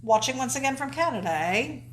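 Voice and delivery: a light Canadian accent with "eh?". Shown as a demonstration. Host redoes the viewer's greeting, in a mild Canadian accent. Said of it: "That sounded more".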